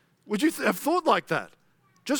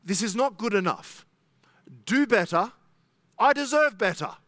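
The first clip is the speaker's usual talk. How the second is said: demanding complaint; 4 semitones higher than usual. Retold or imitated. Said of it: "It says to God".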